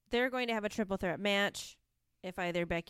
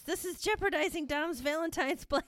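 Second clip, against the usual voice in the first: laughing retold shout; 10 semitones higher than usual. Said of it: "Graves shouts".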